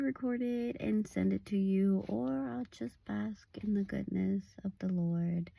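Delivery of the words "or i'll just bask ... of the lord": a contented whispered aside; hushed and softer. Real, not acted. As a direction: whisper it, savouring the moment. Blissful sign-off.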